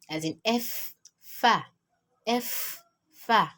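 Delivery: "fa" opening exactly like English "F". Shown as a demonstration. Teacher likening Arabic to English, matching "F" and "fa". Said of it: "the exact way you pronounce your letter F".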